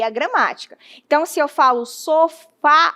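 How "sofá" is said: SOFÁ with a wide-open stressed final A; open, echoing final vowel in "sofá"; open accented A. Shown as a demonstration. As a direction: let the last A of "sofá" ring outward. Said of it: "a minha voz ecoa".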